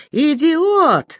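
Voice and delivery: high-pitched acted yell of outrage; angry yell. A narrator's reading. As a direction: cry out the insult, pitch leaping up. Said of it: "завопила Аня".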